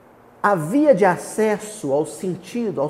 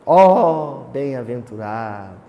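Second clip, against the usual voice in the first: louder poetic "Ó", falling close; declaiming; 4 semitones lower, 5 dB louder, slower than usual. Retold or imitated. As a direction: recite it like a poem. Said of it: "Você declamou". (declamação poética, "Ó" mais forte)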